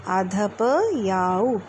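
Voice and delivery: आधा प याऊ, slow, half प cut before याऊ; split syllables. Shown as a demonstration. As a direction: separate the half प from याऊ slowly. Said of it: "इसलिए आधा प".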